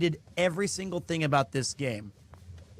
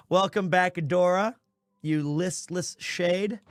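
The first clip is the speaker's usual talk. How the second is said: mocking ghost greeting. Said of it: "Which worked for me in context".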